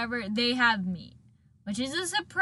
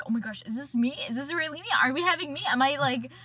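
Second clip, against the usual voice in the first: higher-pitched excited disbelief; mock freak-out; 4 semitones higher, faster than usual. Host retelling Connie's reaction to meat, freaking out. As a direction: imitate someone freaking out over a find. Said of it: "they're freaking out".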